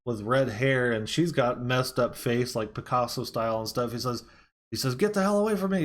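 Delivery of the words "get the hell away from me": high-pitched mock alarm; retold freak-out. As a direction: imitate a frightened man warding someone off. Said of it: "he starts freaking out".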